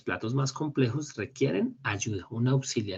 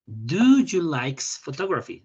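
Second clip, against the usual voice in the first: slow model read; 4 semitones higher, 8 dB louder, slower than usual. Shown as a demonstration. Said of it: "Entonces la oración me quedaría".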